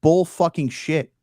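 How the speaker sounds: slow, punched-out retort, word by word; mock outburst, stretching each word to reject the doubt; emphatic rebuttal. Acted rebuttal to doubting creator.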